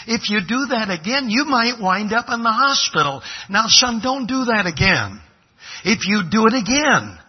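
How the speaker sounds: acted-out dad laying down a rule; fatherly warning. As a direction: warn a child firmly, pitch lifted. Father warning his son, acted.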